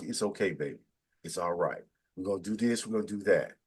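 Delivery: soothing reassurance. Retold or imitated. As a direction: imitate a woman quietly reassuring her man. Voices women soothing their men.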